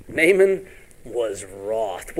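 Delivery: very slow, each word weighed; preacher slowing right down to let it land; slow and deliberate. Shown as a demonstration. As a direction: drag out the words for emphasis. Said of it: "What does that mean".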